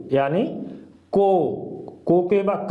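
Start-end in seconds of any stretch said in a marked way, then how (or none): 1.1-1.6 को said round and clear; model syllable. Shown as a demonstration. Teacher to students, demonstrating को. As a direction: sound out को. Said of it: "इसका sound हो जाएगा को".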